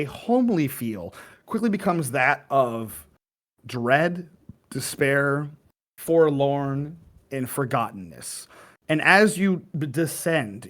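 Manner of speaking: measured game master narration, lingering on key words; scene narration. Acted. Game master leads players into dark ruins, ominous narration. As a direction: set an ominous scene with weighted pauses.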